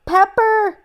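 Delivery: slow, strained after the hot relish; choked-up gasping. Acted. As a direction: squeeze it out, mouth burning.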